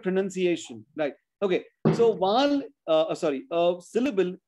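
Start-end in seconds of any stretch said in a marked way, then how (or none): 0.0-0.8 PRONUNCIATION with "nun", contrasting with pronounce; correct pronunciation. Shown as a demonstration. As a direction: say pro-NUN-ciation, no "noun" in it. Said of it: "So pronounce, but".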